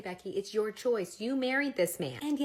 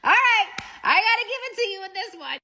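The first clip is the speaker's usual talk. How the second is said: much higher and louder, mock impressed; exasperated concession; 11 semitones higher, 9 dB louder than usual. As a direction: throw up your hands in loud defeat. Wife conceding to husband's boast.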